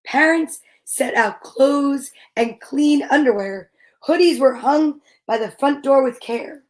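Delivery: measured, rhythmic picture-book narration; storybook read-aloud. A narrator's reading. Reader reading preschool story to little kids, measured rhythmic narration. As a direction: read the rhyme slowly to small children.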